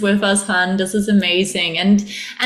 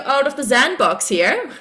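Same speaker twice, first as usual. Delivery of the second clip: higher, giggling warning; laughing mock warning; 3 semitones higher than usual. Her ego warning her off new ground, giggling. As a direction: warn yourself while laughing.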